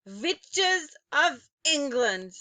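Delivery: Grand High Witch yelling at the witches. A narrator's reading. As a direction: call the hall to order, witch-like. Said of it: "she yelled".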